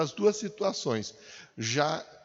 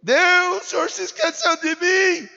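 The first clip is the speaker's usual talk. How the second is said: acted high, shouted plea; loud imploring question; crying out to God; 8 dB louder than usual. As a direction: shout up to heaven as a desperate believer. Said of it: "Você perguntou pra Deus aí".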